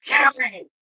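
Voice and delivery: loud retold call; calling out sharply. Mother to her son on the couch, calling out. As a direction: call the child's name loudly in alarm.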